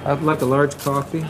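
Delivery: a hint of a jaded teen; mock affected voice. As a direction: copy the barista's affected voice. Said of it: "Why are you talking like that?".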